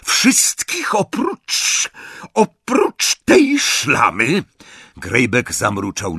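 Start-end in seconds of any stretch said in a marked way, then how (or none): 0.0-4.4 high, slow, drawn-out menace; single her out, pausing with venom; sharp, menacing order. A narrator's reading. Bellatrix keeps one prisoner back, sharp. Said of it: "powiedziała ostrym tonem Bellatrix".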